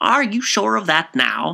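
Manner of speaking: dubious tone. Mr. Fogarty questions the claim about the cardinal, dubious.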